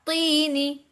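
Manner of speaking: तीनी with a thick, emphatic त; stretched तीनी with a heavy first consonant; heavy taa. Shown as a demonstration. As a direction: make the त of तीनी full-mouthed and hold the ee. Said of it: "तो मोटा".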